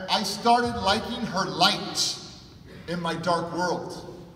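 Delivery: slow, gentle and drawn out; tender reflection. Real, not acted. Speaker recalling Cheryl's light in his life, slow and tender.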